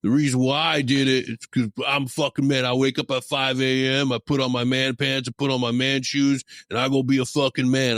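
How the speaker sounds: lightly voiced macho sales guy, mocking; mimicking a boastful sales executive, mild mockery; mocking sales warrior. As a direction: ham up a self-styled warrior a little. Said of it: "And the guy answered back".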